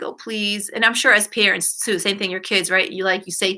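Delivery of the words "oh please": softly imitated pouty begging; a mild mock pout, voice dropped soft; pouty pleading. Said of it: "kinda like that pouty face".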